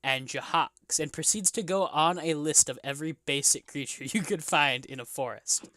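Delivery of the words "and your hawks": slow, deliberate old local, lightly voiced; old bartender. Old bartender warning adventurers about the woods, lightly acted and slow. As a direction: list the dangers with long pauses.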